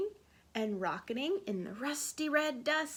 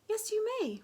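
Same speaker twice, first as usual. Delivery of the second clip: pleased; 10 semitones higher than usual. Acted. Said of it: "pleased with her boy's manners".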